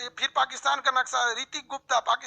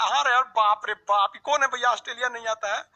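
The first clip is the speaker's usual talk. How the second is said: amused disbelief. Real, not acted. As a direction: laugh it off in disbelief. Teacher amused by comment. (हँसते हुए हैरानी से)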